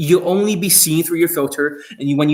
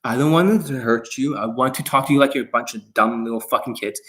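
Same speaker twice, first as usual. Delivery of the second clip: mock careful coach; 3 semitones lower than usual. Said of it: "They have to talk very carefully".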